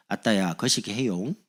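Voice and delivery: slow, drawn-out Jeolla dialect. Acted. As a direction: imitate a Jeolla speaker, stretching the ending. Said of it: "할 때 전라도는". (늘어지는 전라도 사투리로)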